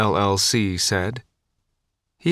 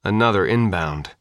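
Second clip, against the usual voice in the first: plain reading voice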